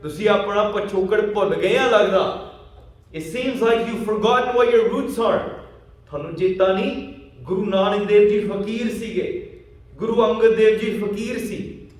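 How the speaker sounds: acting out a scornful challenger calling out; loud taunt. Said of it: "ਉੱਚੀ ਆਵਾਜ਼ ਕਹਿ ਰਿਹਾ ਆ".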